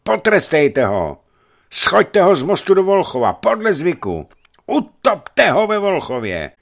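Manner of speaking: very high, loud vengeful cries; furious shrieking. A narrator's reading. A woman lunges at the boyar, furious shrieking. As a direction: scream for him to be drowned.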